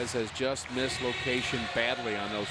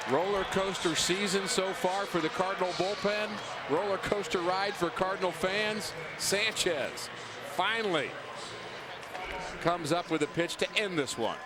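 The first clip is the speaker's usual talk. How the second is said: excited; 5 semitones higher than usual. Real, not acted. Analyst reacts to game end.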